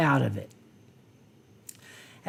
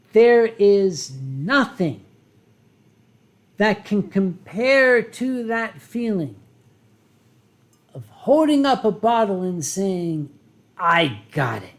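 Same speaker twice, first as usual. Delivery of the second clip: dramatic retelling. Retold or imitated. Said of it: "he wasn't even this dramatic".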